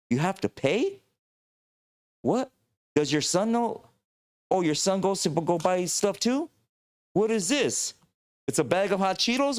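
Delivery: a warrior from the thirteenth century, very high and astonished by modern life. Pretend. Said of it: "They're gonna be like".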